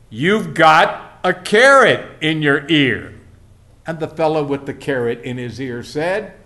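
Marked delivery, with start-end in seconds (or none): 0.1-3.1 slowly, a bit raised, spaced out; a little louder. Retold or imitated. Fella repeating to carrot-eared man, a little louder. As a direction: repeat it slowly for someone who didn't hear. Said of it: "in a little louder voice".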